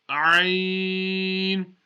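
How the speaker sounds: Ain pushed out from the middle of the throat; Arabic letter Ain from the throat; throaty Ain. Shown as a demonstration. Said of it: "pronounced from the middle of the throat".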